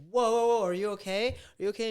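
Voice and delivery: high, loud alarmed whoa, asking if she's okay; startled awake, rushing to ask if she's alright; alarmed check. Retold or imitated. Waking to his screaming girlfriend, high alarmed concern. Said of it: "I'd be like".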